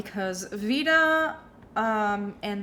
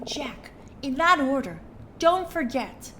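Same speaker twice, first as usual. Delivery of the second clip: snooty woman voice; 4 semitones higher, 4 dB quieter than usual. Acted. Vida speaking to player.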